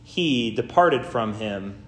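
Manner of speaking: formal, measured Gospel reading with weighted phrases; solemn lectern delivery with deliberate pauses; scripture reading. Real, not acted. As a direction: read it out to a congregation, phrase by phrase. Reads the Gospel aloud in church.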